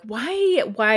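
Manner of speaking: high pleading why; mock despairing whine; exasperated why. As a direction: throw up your hands at the screen. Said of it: "I'm always like".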